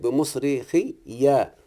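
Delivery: بمصرخية drawn out syllable by syllable with the final ya stressed; slow careful recitation. Shown as a demonstration. Sheikh demonstrating the reading to his student, slow and deliberate. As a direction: spell out بمصرخية very slowly for the student. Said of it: "دي قراءة الجماعة".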